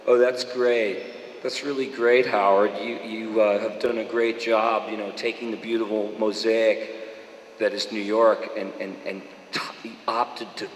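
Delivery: sarcastic caller drawling fake praise; lightly voiced prissy listener; uptight caller. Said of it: "uptight white guys always calling in".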